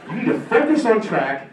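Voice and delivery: high, loud, strained coach's yell, laughing through it; a coach screaming at an athlete to stick with track; imitated screaming coach. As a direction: bellow at the kid like a furious coach. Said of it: "This is what he's screaming at me".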